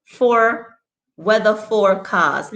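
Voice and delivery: FOUR and FORECAST with the R sounded; pronounced R. Shown as a demonstration. Asking the chat about four, R pronounced. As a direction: test "four" and "forecast", keeping the R audible. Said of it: "Me pronounce the R".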